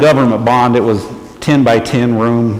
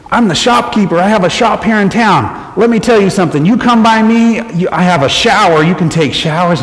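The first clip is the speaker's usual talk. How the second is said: eager shopkeeper; 6 semitones higher than usual. Retold or imitated. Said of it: "And he says".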